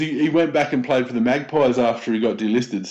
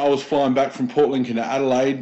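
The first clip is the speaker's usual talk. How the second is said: ordinary talk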